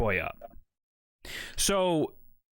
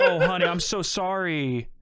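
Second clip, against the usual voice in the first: slow, drawn-out imitated sympathy; mock pitying apology; 3 dB louder, slower than usual. Barber apologizing for the botched cut, mock sympathy. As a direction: coo it like a sorry barber.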